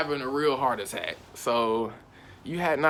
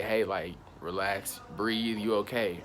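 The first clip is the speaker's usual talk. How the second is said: low, soft, slow comforting voice; calm him down gently; a friend talking you down softly; soothing; 3 semitones lower, 4 dB quieter, slower than usual. Pretend.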